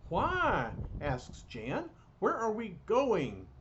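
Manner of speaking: high, startled asking; surprised question. Acted. Jan asks Hank in alarm where they are going, high and surprised. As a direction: Jan blurts out her alarm.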